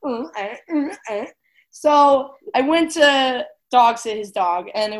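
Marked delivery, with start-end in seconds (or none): 0.1-1.2 imitated brain-glitch grunts. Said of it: "My brain was like".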